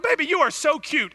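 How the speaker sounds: high, loud teasing coo; mock sweet-talk. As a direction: flatter her while she's mad. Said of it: "I'm like".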